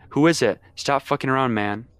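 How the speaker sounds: telling someone to stop fooling around; yelling. Retold or imitated. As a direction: call out scared at the door. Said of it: "We keep yelling outside".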